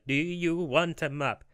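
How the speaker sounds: slow, high, pointed question; exasperated. Acted. Map seller to silent customer, slow exasperated voice. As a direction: spell it out slowly as if to a dimwit.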